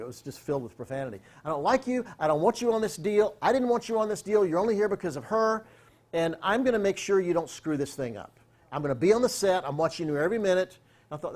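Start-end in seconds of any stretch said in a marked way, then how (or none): 1.4-10.8 raised, higher mock tirade; a boss chewing him out, replayed; hammed-up threatening boss; retold angry rant.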